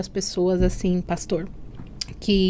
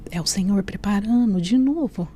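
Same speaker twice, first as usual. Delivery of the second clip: hushed whisper to herself. Retold or imitated. Daughter whispering to herself about the Lord's plan, whispered. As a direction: breathe it out in a whisper, half to herself.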